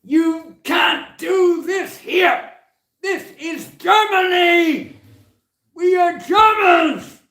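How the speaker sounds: furious high screaming, slow and drawn out; roaring in anger, very high and loud; angry shout. Retold or imitated. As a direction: bellow it like an enraged kid. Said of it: "he shouted at me".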